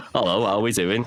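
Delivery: put-on an older Scouse lilt, from Runcorn; a light sixties Scouse voice, in contrast with modern Scouse; sixties Runcorn accent. Shown as a demonstration. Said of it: "kind of the sixties accent".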